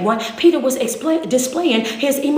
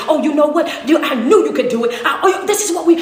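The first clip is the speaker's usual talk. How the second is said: proud praise; 3 semitones higher, 4 dB louder, faster than usual. Retold or imitated. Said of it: "look at us and say".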